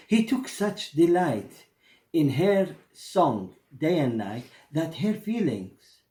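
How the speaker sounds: lightly voiced storybook narration; a storyteller opening the tale for his audience, gently; story narration. A narrator's reading. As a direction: tell the tale to listeners, unhurried.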